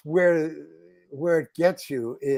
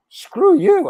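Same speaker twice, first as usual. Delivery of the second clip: sudden high, loud "screw you"; retold defiant shout; 10 dB louder than usual. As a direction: blurt it out like the stubborn friend overruling him. Friend defiantly overruling him.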